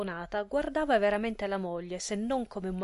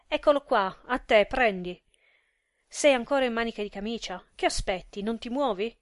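loud, sharp orders thrust at him; impatient urging; 5 dB louder than usual. Acted. Wife pushing the calling card on husband, loud and impatient. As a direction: hurry him up, exasperated.

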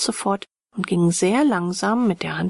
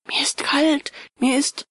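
higher-pitched complaint of being cold; chilled, higher character voice; teeth chattering; 8 semitones higher than usual. A narrator's reading. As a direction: shiver through the words, pitched up. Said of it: "wie seine Zähne klapperten".

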